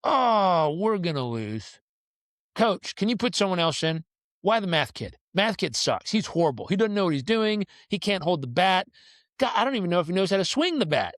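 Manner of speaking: lightly acted whining dismay; mock despair over a bad player; complaining teammates. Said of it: "rest of my team is like".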